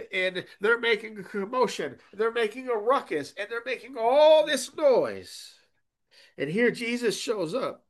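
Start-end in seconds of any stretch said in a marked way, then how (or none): 0.1-5.5 building to loud. Shown as a demonstration. Preacher picturing hired mourners, building to loud. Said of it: "building mourners' commotion".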